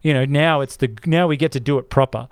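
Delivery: mock incredulous. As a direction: pretend to quiz the makers, incredulous. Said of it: "And you're like".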